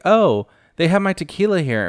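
high, delighted imitation of Kathy; light mock glee at spotting her brand; excited. Kathy spotting her tequila, high delighted imitation.

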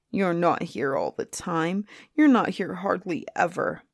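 mildly aggrieved grumble; grumbling. Acted. Lonely griffin complains to the boy, grumbling. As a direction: grumble like a neglected friend. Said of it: "grumbled the griffin".

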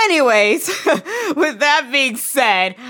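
giggling while talking, slowly; laughing. Real, not acted. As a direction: laugh and push on. Laughing, trying to continue.

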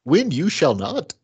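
lightly voiced wise creature, slowed down; slow, measured mock-sage delivery; a hint of Yoda's voice, drawn out. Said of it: "Was that a good Yoda accent".

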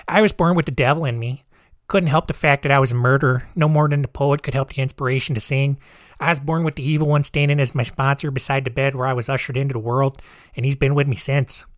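lightly put-on Chicago accent, reading out a killer's letter; a hint of Chicago accent, barely there; bad Chicago accent. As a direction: read the confession in a weak, hammy Chicago accent. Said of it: "that was a really bad Chicago accent".

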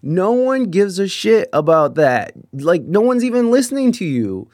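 slow, emphatic telling-off; retold fed-up order to quit, each word leaned on; drawn-out, exasperated rebuke; exasperated scolding. Retelling himself scolding a rowdy drinker.

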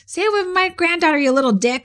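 imitating an outraged grandfather; mock grandpa yell. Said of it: "your father yells".

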